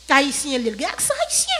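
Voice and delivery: imitated critic, pitch jumping up at the end; mock criticism. Voices critics of Haitian accent. (imitasyon yon moun k ap kritike, vwa a monte nan fen)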